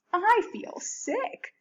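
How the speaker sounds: a small sick little voice; weakly. Acted. Girl in the car to her dad, weak and slow. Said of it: "said Sarah weakly".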